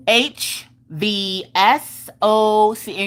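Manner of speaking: very slow, drawn-out letters; super sassy. Retold or imitated. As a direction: spell it out with cocky certainty. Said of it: "She being super sassy".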